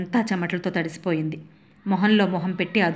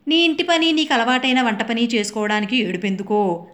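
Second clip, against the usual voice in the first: mocking sons; 3 semitones higher than usual. Sons scoffing at their mother's housework, mild mockery. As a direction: tease her for complaining. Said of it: "అంటూ ఎద్దేవాలు".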